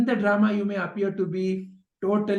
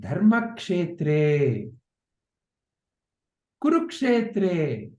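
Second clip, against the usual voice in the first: slow recital; 3 semitones lower, much slower than usual. Shown as a demonstration. Slow recital of verse words.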